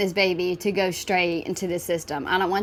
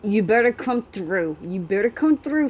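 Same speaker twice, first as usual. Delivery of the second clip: excited outburst; 2 semitones higher, 3 dB louder, slower than usual. Real, not acted. Reacting to a video, loud laughing call to the host. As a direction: burst out laughing at the clip.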